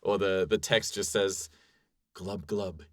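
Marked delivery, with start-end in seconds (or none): 2.1-2.8 a soft, mock-sensual glub glub; mock whisper. Quoting the fish man's famous line as a soft mock whisper. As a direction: breathe "Glub, glub" softly. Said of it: "he whispered".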